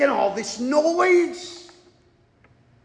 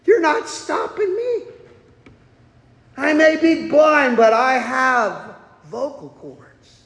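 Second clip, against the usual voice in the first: defiant retort. Retold or imitated. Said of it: "Bartimaeus says".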